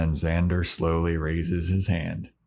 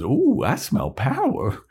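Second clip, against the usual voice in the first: hammed-up demon; 7 semitones higher, 4 dB louder, slower than usual. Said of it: "he goes".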